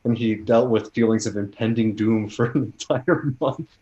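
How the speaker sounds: a light hint of a Canadian accent; slight Canadian accent. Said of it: "Are you doing a slight Canadian accent".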